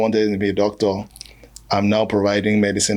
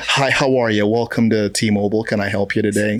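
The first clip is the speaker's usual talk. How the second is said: fake customer-service English. Comedian mocking work English for the host, chirpy polite. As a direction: put on a cheery call-centre voice. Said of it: "this fake English".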